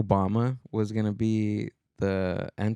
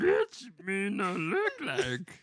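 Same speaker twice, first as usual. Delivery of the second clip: high, slow, soft backwards Yoda voice; mock Yoda; 8 semitones higher, 5 dB quieter, slower than usual. Joking with a friend in a Yoda voice. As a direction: drag it out like a tiny old sage. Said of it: "You sound like Yoda".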